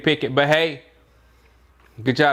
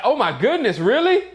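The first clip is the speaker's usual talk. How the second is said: higher, stunned "Oh my goodness, really?" rising to a squeak; mock amazement; 6 semitones higher than usual. Narrating Franco's reaction to the draft pick, in mock disbelief. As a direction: play the stunned fan, hammed-up. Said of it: "Franco is like".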